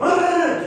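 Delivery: high-pitched burst of noise mimicking a flapping bird; quick high imitated squawk; imitated rooster attack. Imitates rooster attacking his leg.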